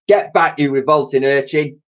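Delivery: bawling. Acted. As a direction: bark it like a gruff copper. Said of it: "he bawled".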